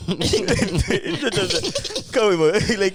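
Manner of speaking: high laughing voice. Real, not acted. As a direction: laugh through the words. Laughing while mocking travel plans.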